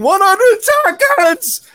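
high, stretched-out mock holler; retold yell. Storyteller replaying his warning to them holding the lantern, retold yell. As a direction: re-enact yelling a frantic instruction. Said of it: "and I'm yelling".

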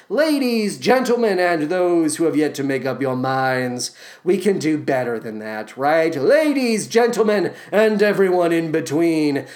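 showman announcing with sass; a light drag emcee flourish; lightly hammed-up stage announcer; kinky voice. Shown as a demonstration. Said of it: "you can still say it in a kinky voice".

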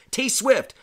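high, loud gleeful yelp of the name; excited shout. Real, not acted. Pastor gleefully announcing a singer to his congregation, excited yell. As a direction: shout it like a fan losing it.

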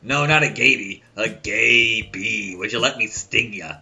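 lilting correction. Retold or imitated. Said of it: "And he goes".

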